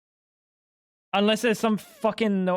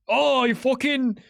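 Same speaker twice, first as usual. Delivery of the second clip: a hammed-up British accent, pitched higher; a quick mock British jab, laughing at yourself; 5 semitones higher than usual. Streamer imitating a British reaction to steak pie, mock British accent. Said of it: "No, wait, that's British".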